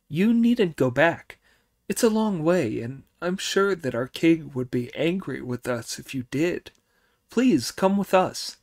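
high pleading little devil; eager high minion voices. Acted.

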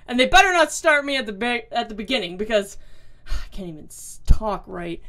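tripping over his words; stuttering. Real, not acted. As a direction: stumble and restart the word. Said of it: "I'm stuttering and everything".

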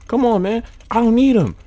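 high, loud, building to a victory scream; real all-out gamer hype; frantic shouting. Real, not acted. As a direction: shout in rising panic, then yell in triumph. Frantic end of match, then victory.

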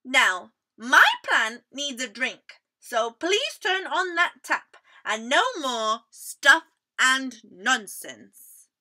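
firm, bossy little mouse. Acted. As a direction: tell them off firmly. Mouse scolding a guest.

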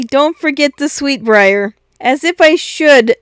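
bright insistent; eager. Acted. Eager quarrel about sweetbriar.

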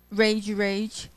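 "Rage, rage" both words stressed evenly; double stress. Shown as a demonstration. Teacher showing spondees, both "rage" stressed. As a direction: hit each "rage" equally. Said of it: "double stress".

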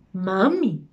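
mock-questioning repeat of a word; incredulous echo. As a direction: throw the word back in disbelief. Indignant echo of son's word.

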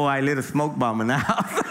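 chuckling through the admission; laughing confession. Retold or imitated. Telling brothers what he did, laughing. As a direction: laugh while owning up to the prank. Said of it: "I go".

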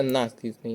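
наскрізний stressed on opening НА; наскрізний as НА-скрізний; stress on first syllable. Shown as a demonstration. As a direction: hit НА in наскрізний. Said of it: "наголос на перший склад".

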